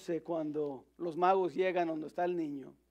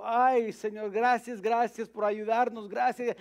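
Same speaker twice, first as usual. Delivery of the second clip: grateful mother; 4 semitones higher than usual. Retold or imitated. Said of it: "la mamá, dijo".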